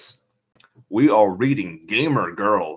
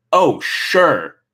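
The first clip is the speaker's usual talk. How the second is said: sarcastic; 3 semitones higher, 4 dB louder than usual. Acted. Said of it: "my voice dripping with sarcasm".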